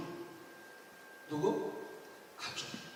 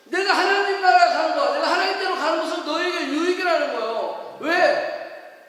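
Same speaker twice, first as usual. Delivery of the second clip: loud, raised, rhythmic proclamation; full-force preaching; 7 semitones higher, 8 dB louder than usual. Real, not acted. Pastor promising the Spirit's coming to believers, full-force preaching. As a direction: hammer each repeated promise home.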